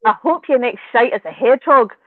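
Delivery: put-on 1 Scottish accent. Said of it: "with the Scottish accent".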